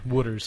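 "water's" said as "wooder's"; vowel of "wood" in "water's"; local pronunciation of water. Shown as a demonstration. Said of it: "how we say it here".

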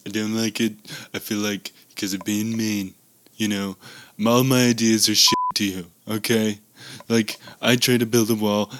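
lightly voiced Oval Office speech; presidential address. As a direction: address the nation as Trump. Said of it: "clip of your new version".

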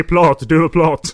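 laughing loudly while calling out. Real, not acted. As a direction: shout it through laughter. Laughing, calling Todd by nickname.

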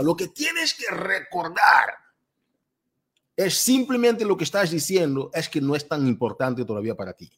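ordinary talk, nothing marked

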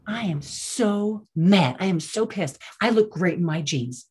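mildly dramatic mock outrage, drawn out at first; dramatic retelling. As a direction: retell her mock fury with a touch of drama. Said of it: "just be all dramatic".

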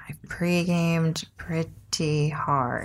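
drawn out, slow and deliberate; slow emphatic repeat. Shown as a demonstration. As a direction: stretch each word out slowly. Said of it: "Well, I pre-gamed pretty hard".

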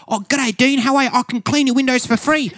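high, chirpy mock window cleaner; eager window cleaner greeting a celebrity, high mock voice. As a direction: chirp it up like an overfriendly stranger. Window cleaner mistakes him for Dean.

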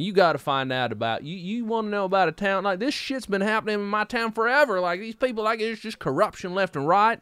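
mock the guy ranting about his town's corruption; worked-up letter writer. Quoting a small-town tipster, mock-indignant and pitched high.

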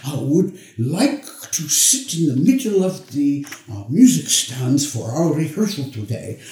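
light Dutch accent imitation. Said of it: "in his inimitable Dutch accent".

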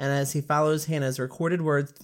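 thick-tongued careful retake; swollen tongue. Real, not acted. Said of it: "Why is that hurting my tongue?".

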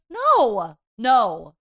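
a loud flat refusal; loud emphatic no; firm loud no. Retold or imitated. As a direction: shut it down hard, no twice. Refusing the rectal thermometer.

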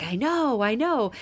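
a light hint of her little girl agreeing; daughter's voice.

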